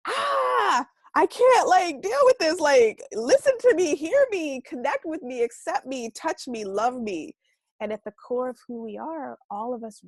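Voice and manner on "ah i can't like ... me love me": put-on high, loud childlike plea fading down to plain; pleading inner child. A five-year-old inner child begging to be loved, high and pleading. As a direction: beg like a small kid who needs to be heard, then soften. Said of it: "that's your inner child speaking".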